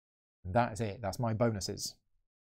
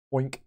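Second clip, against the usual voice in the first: a quick mock pig oink; 3 semitones higher than usual. Getting another pig, he does a playful oink. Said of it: "That was my pig impression".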